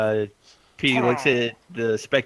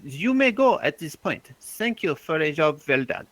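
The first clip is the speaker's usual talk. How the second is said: lofty dismissal; 5 semitones higher than usual. Acted. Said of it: "looks at the spectator and says".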